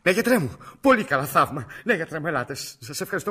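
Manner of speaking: loud, high, gushing agreement; relieved delight. Acted. Caller hears the doctor will come, delighted and relieved. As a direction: gush gratefully, voice lifted and loud.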